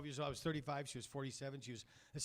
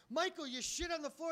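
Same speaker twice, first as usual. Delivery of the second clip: mock shock. Uncle scolding nephew in story.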